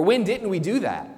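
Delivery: puzzled goats. Acted. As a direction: ask as if truly confused. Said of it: "their responses are actually almost identical".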